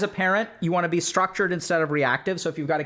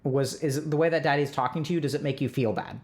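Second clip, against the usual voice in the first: soft checking in; 4 semitones lower than usual. Shown as a demonstration. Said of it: "And then you can ask them".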